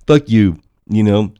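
loud buck-toothed cursing; mock rabbit blurting it out loudly; rabbit impression. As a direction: curse through a pretend overbite. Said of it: "he sounds like a rabbit".

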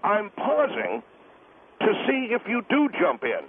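PAUSING drawn out slowly, then a waiting gap; slow "I'm pausing", halting to test the listener; deliberate pauses. Real, not acted. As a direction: stretch "pausing" and stop before "to see". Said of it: "tell you why I'm pausing".

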